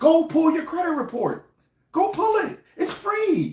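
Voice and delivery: voice jumps very high, squeaky. Talking to listeners, high-pitched Black voice. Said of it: "didn't mean to have the high pitched black voice".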